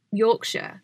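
lightly put-on Yorkshire pronunciation; Yorkshire accent. Shown as a demonstration. Showing which accent to avoid, in a light Yorkshire accent. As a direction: say it with a hint of Yorkshire. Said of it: "you also can't sound like".

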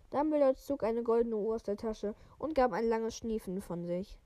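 even, measured read-aloud voice; story narration. A narrator's reading. Podcaster reading a wizard novel to listeners, story narration.

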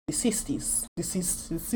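near-silent whisper of "The sixties"; "The sixties" breathed almost soundless; whispered aside. Real, not acted. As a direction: whisper "The sixties" under her breath, unvoiced. Aside before the accent attempt.

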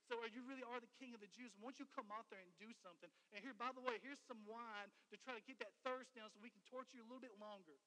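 loud soldier's taunt, imitated; preacher acting out jeering soldiers; mocking. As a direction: goad him with sarcastic offers. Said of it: "the same thing".

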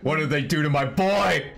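high-pitched, hammed-up distress; mock anguish. Fan bewailing a favorite character's treatment, high mock anguish. Repeats it in escalating mock outrage.

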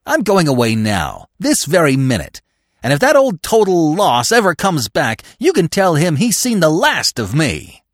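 indignation building high and loud; furious farewell. A narrator's reading. McTodd announcing he is leaving, furiously indignant. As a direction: declare it hotly, mounting to the end.

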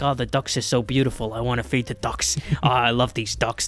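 a lightly voiced mobster whining over ducks, building to mock anger; slight mob boss impression sliding from doting to mock fury; Tony Soprano voice. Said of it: "he's like".

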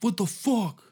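high, startled outburst; hammed-up startled cry; mock shock. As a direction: squeal it out in disbelief. Shocked reaction, high far voice.

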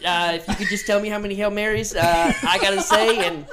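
confessing to a priest. Acted. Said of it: "you did really good father voice".

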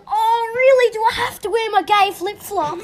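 whiny protest. Acted. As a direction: protest like you're being made to, half laughing. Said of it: "Maybe like".

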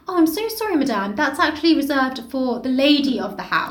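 mock-polite apology, lilting at the start; so politely. Housekeeper turns a guest out of the seat, so politely. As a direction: apologise with exaggerated courtesy. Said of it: "But do it so politely".

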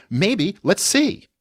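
put-on high, very slow little girl's hopeful maybe; imitating his little daughter. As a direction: draw it out like a curious three-year-old. Three-year-old daughter voiced in story.

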